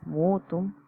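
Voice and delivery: careful Latin reading of "mutuum", each vowel sounded; Latin word read out. Shown as a demonstration. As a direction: spell out "mutuum" slowly as a Latin example. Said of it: "Tenemos dos ejemplos completamente diferentes". (lectura cuidadosa de "mutuum" en latín)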